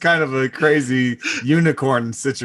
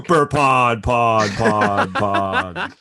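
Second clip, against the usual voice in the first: fading echo; 5 semitones lower, much slower than usual. Pretend. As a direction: voice echoing away. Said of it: "he just does it for me".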